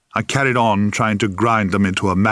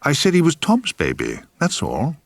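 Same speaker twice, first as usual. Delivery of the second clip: slightly shaken, higher, nervous repeat; a little shaky; 5 semitones higher than usual. Acted. Daughter repeating herself to her raging father, a little shaky. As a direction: hold your nerve but let it waver. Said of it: "a little shakily".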